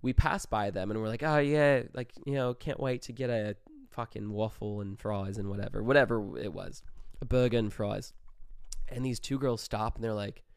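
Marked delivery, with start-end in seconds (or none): 1.2-5.8 casual fake Aussie accent; Australian accent. Chatting on the walk to Denny's, fake Australian accent. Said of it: "still sticking with our Australian accents". 7.2-8.1 lightly put-on Aussie vowels; a hint of fake Australian; fake Australian accent. Naming late-night food, lightly faked Australian accent. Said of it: "still sticking with our Australian accents".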